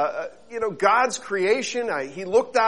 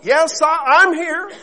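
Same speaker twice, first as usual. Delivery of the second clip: a lightly voiced answering call, raised; voice from above; 11 semitones higher, 8 dB louder than usual. Unseen voice answering the falling man, called out. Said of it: "a voice called out".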